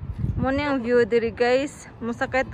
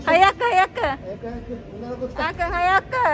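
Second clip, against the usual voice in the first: excited urging; 4 semitones higher than usual. Real, not acted. Urging child to hurry.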